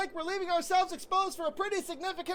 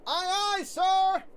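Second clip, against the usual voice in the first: louder, snappy aye aye; eager shout; 4 dB louder, slower than usual. Acted. Bosun confirms the order to the commander, eager shout. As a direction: bark it like a keen sailor.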